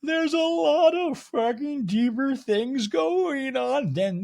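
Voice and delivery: high, slow, hammed-up wail; Meredith's mock crying. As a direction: imitate a tearful dramatic exit, swooping and drawn out. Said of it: "now Meredith starts crying".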